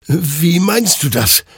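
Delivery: high-pitched, bewildered question; confused stammer. Acted. Hector questions the souls, high and bewildered. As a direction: ask slowly, thrown off balance. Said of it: "stammelte Hector verwirrt".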